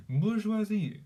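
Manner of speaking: practising a put-on French accent. Shown as a demonstration. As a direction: savour the French vowels of "bourgeoisie". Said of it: "So French is bourgeoisie".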